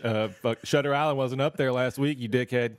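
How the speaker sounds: loud mock outburst; hammed-up angry rant.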